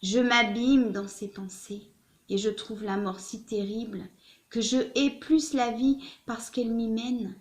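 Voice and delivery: put-on measured, dramatic reading of an old letter; literary letter reading. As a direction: read it out with emphatic questions and pauses. Reads a letter aloud.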